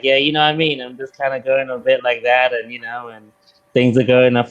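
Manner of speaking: casual American chat; American accent. Shown as a demonstration. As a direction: slip loosely into an American accent. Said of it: "if I'm in America and I'm talking to people".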